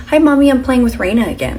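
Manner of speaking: voce da bambina più acuta e più forte; la madre imita la figlia che saluta; little girl voice. Retold or imitated. Daughter voiced high.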